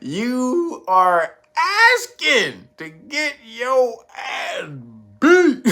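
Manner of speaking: half laughing, half crying, then burst out on the last word; laughing outrage. Real, not acted. Warning the man who said it, slow laughing outrage.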